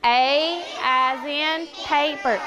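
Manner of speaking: A as in paper said slowly and clearly; slow model phrase. Shown as a demonstration. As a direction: spell it out slowly for them to echo.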